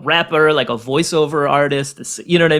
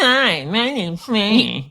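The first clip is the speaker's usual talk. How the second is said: slow, higher, exaggerated nasal American voice; nasal American impression; 5 semitones higher, much slower than usual. Shown as a demonstration. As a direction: send up Americans through the nose. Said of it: "so we sound nasally".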